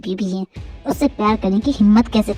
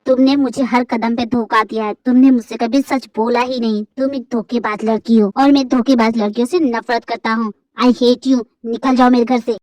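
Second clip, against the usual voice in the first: lowered, cold accusing male voice; angry husband; 6 semitones lower than usual. Acted. Husband throwing his wife out, lowered and cold. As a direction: lay out every betrayal, deep and hard.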